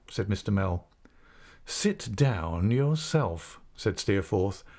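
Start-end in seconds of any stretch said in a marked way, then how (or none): 1.7-3.6 very slow, stretched-out defiant comeback; insolent retort. Acted. Pupil answers the schoolmaster back before the class, slow and insolent. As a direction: drag the words out to mock the order.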